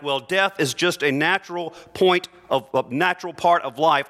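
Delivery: a hint of a glib comforter; lightly mocking a pious cliché; mock platitude. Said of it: "platitudes like".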